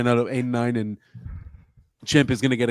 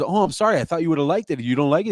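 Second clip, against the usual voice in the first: higher-pitched mock apology; apologetic colleague, imitated; 4 semitones higher, faster than usual. Son retelling a teacher apologizing to his dad, apologetic. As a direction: imitate her backpedaling.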